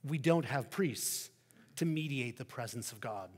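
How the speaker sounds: the Christian. Acted. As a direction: answer without hurry. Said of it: "replies the Christian".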